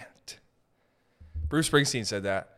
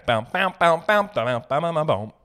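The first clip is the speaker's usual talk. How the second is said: guitar strumming sounds; 4 semitones higher, 5 dB louder than usual. Shown as a demonstration. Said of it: "I'm bam".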